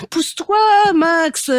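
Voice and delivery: high, hurried hen voice; clucking hen. Acted. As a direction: cluck it out in passing. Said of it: "caquette Picotis".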